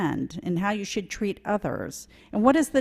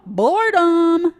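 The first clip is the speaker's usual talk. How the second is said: bored emphasis; 9 semitones higher, 9 dB louder, slower than usual. Acted. Vulture complains of boredom.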